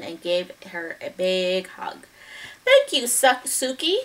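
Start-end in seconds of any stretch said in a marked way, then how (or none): 2.6-4.0 grateful cry. Acted. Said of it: "she cried".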